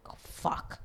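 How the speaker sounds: hushed, whispered disbelief; stunned whisper. Retold or imitated. Housemates seeing Valentina walk in, stunned whisper.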